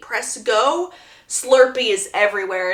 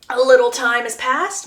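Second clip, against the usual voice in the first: ordinary talk, nothing marked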